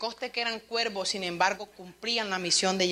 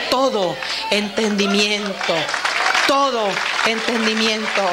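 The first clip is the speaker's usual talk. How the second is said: loud, slow stress on todo; rising emphasis; 8 dB louder than usual. Shown as a demonstration. Preacher driving home the scripture about peace, stressing todo. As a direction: hammer the word todo each time. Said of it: "su paz sobrepasa".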